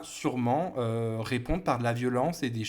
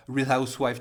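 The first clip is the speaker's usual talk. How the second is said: put-on American accent; 3 dB louder than usual. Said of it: "qui parlent comme ça".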